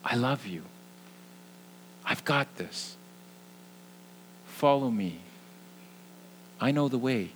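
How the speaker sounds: soft, tender voicing of God's words; gentle whisper of God. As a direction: speak it softly like a loving whisper. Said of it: "I suspect it'll sound something like this".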